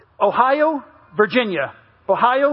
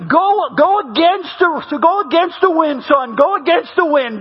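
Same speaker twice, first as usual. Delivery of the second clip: mock yell; 4 semitones higher than usual. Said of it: "And then he yells".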